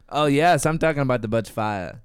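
attempted Aussie reply; amateur Australian impression; Australian accent. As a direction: answer in a put-on Australian accent. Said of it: "tell the story in an Aussie accent".

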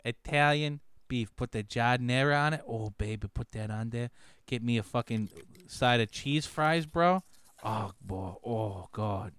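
a hint of a Chicago blowhard; mock Chicago tough guy. Chicago native lecturing Johnny on sandwiches, lightly hammed-up bluster.

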